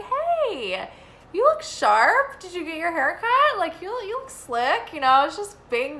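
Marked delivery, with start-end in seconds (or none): 0.0-4.9 eager compliment. Retold or imitated. Retelling her compliment to producer.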